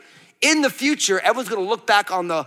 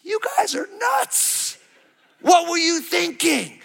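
much higher, slow mocking cry of a child; mock baby outcry; 9 semitones higher, slower than usual. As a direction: squeal it like the kids judging you. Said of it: "your babies are gonna say to you".

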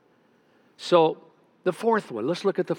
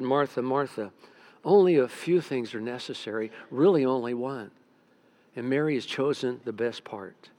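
gentle Jesus; 4 semitones lower than usual. Acted. Jesus gently answering Martha.

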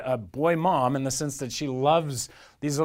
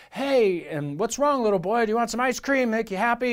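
put-on higher-pitched, chirpy vendor coaxing a child; raised-pitch sales patter to a little boy; ice cream man; 6 semitones higher than usual. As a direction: play a friendly ice cream seller. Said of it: "the ice cream man looks down".

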